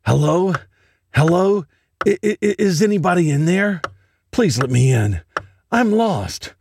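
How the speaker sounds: put-on high, small little girl voice asking to be let in; a lost child at the door, high and pleading; lost child's voice. Lost girl begs through the door, high pleading child voice. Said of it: "A voice speaks up".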